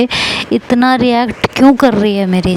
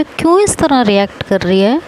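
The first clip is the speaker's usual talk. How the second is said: usual speaking voice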